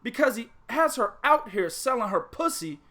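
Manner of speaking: hyped rant. Real, not acted. Pimp rant.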